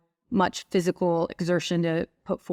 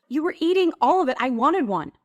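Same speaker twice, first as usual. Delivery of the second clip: higher, fast plaintive excuse; husband's reply; 6 semitones higher than usual. Retold or imitated. Husband admits he wanted a donut, higher quick plaintive voice. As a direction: blurt it like a sulky husband. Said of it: "and he goes".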